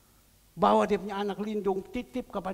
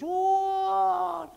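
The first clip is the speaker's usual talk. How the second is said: long high mock wail; hammed-up bawling on one held note; imitated crying wail; 11 semitones higher, 7 dB louder than usual. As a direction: burst into a loud, drawn-out imitation sob. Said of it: "Langsung nangis".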